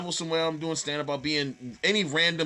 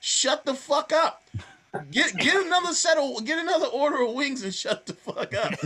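mock outburst; 9 semitones higher than usual. Mock rant at heckling fans.

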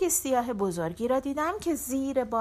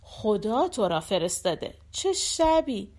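overjoyed. Acted. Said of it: "ذوق زده و خوشحال گفتم".

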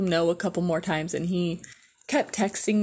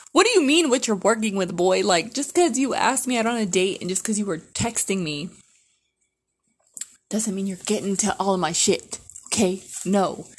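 indignant scolding; 2 semitones higher, 4 dB louder than usual. Retold or imitated. Outraged reply to creepy texter.

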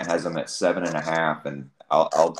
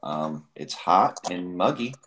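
tinny speakerphone voice; slow speech over a speakerphone; slower than usual. Real, not acted. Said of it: "so we're on speakerphone".

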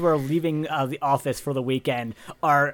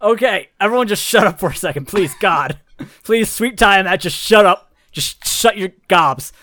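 exasperated yelling; 3 semitones higher, 5 dB louder than usual. Acted. GM's boss yelling at players.

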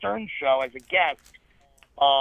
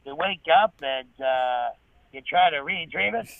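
Norm Macdonald impression; 4 semitones lower than usual. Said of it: "I do a pretty decent Norm impression".

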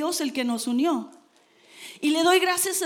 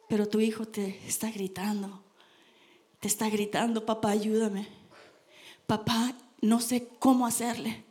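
son pleading; 3 semitones lower than usual. Retold or imitated. Voicing a son pleading with father.

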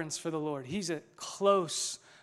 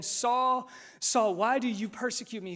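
higher, calling voice from heaven; 5 semitones higher than usual. Acted. The Lord calling out to Saul on the road, raised and higher. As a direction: call down to Saul from above.

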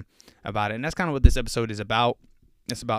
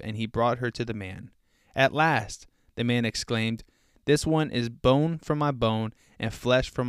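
scripture reading. Acted. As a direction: read the verses with weight, unhurried. Reads scripture aloud.

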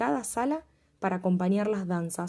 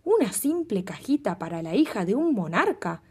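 furious king. Acted. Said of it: "el rey dijo furioso".

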